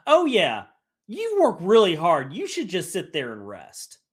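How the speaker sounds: snarky, mocking reassurance; sarcastic fake kindness; sarcastic snark. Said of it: "That sarcasm, the snark".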